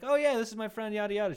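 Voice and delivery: high-pitched imitated Southern introduction; friendly Southern lady. Southern lady introducing her friend, imitated friendly accent. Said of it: "like, friendly Southern lady".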